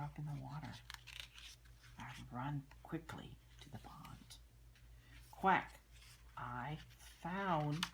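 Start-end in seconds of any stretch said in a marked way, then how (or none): 2.0-4.4 softly whispered repeat; whispered reread for the child. Shown as a demonstration. 5.3-5.8 high, loud duck quack; playful loud duck call. Pretend. Duck sound while reading book.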